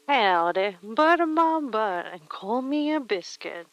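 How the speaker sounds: a loud, playful cowboy howdy; cowboy accent. Pretend. Streamer greeting a chat friend in a mock cowboy accent. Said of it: "like the cowboy accent does".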